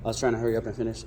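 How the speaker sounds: winded, rushed and panting; out of breath. Real, not acted. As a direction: talk fast while catching breath. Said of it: "I need to catch my breath".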